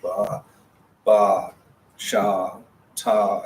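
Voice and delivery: ba, ba, sha, ta sounded out one by one; sounding out syllables. Shown as a demonstration. Teacher sounding out ba, sha, ta for students, slow and separate. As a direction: spell out the sounds slowly, syllable by syllable. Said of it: "Because you're like".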